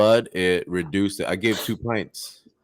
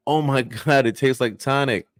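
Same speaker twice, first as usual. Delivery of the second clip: mock amazement with a raised pitch; amazed reaction; 4 semitones higher than usual. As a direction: lightly play wonder at a surprising taste. Joke character amazed by apple's taste.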